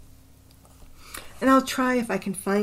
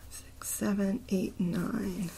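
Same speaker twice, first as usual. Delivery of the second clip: softer half-whispered syllable count; counting under breath; 7 dB quieter, slower than usual. Real, not acted. Counting a poem's syllables to himself, half-whispered. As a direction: mutter the count to yourself.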